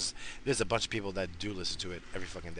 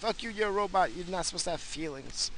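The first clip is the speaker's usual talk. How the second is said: mock yelling at robot; 9 semitones higher than usual.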